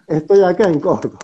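ordinary talk

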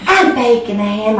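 proud sister. Retold or imitated. Sister announcing her cooking on the phone, proud.

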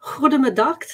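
clumsy stab at Dutch pronunciation; terrible Dutch accent. Pretend. Trying a second Dutch greeting for a viewer, bad Dutch accent. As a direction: try Dutch with an uncertain accent. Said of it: "that accent was terrible".

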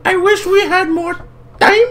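very high falsetto attempt at an Asian woman's accent. Game character asking old friends for urgent help, Asian woman accent. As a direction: put on a squeaky, halting Asian accent. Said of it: "That is some accent".

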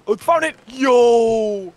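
high, loud shout of discovery; excited find. Real, not acted. Player finds the buried treasure, excited shout. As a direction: cry out in triumph, pitch leaping up.

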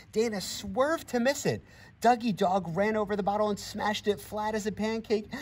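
high, loud, racing storytelling; breathless play-by-play of a kids' bike race; excited race narration. A narrator's reading. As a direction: build the thrill of the race.

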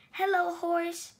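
high cheerful hello; cheery greeting. Acted. Duck greeting Horse with a high cheerful hello. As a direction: wave and call hello. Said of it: "said Duck".

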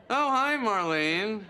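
slow, drawn-out hi; weary greeting. Retold or imitated. Man mimicking his answer to her endless calls, slow and weary. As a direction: drag the greeting out tiredly. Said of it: "And I'll go".

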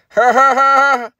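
slow, loud, high hollow laugh; bitter laugh. Real, not acted. Slow hollow laugh as his stocks keep falling.

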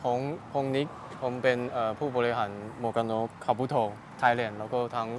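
Taiwanese speaker's halting Thai; foreigner broken thai. Real, not acted. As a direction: Thai with a light Taiwanese accent. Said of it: "เป็นคนไต้หวัน แต่ก็พูดไทยได้นิดหน่อย". (ภาษาไทยสำเนียงคนไต้หวัน)

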